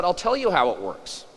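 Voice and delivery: punchline with laughter. Acted. Punchline from old woman.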